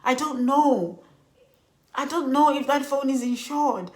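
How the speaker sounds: mock-distraught recounting; retold breakdown. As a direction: act out upset disbelief, slowing on the repeat. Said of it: "I think I broke down".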